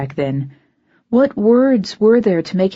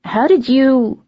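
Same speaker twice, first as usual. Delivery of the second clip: high, louder, breaking off; startled and cut short; 7 semitones higher, 5 dB louder, slower than usual. Acted.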